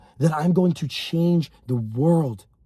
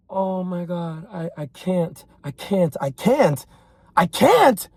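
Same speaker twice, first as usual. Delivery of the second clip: mock helpless whining; slower than usual. Imitating someone saying they can't, mock whining. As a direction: imitate a quitter, swelling with each repeat. Mimicking a follower giving up.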